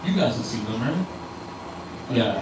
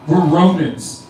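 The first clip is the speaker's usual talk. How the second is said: drawn out, a touch louder, proud; slow proud Romans; 3 semitones higher, 6 dB louder, much slower than usual. Acted. Churchgoers proudly telling Jesus who they are, slow and drawn out. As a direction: announce it slowly as a Roman.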